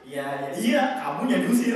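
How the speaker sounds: rising to a loud punchline; comic retort. Acted. Answering Iblis that he is the one expelled, mock retort.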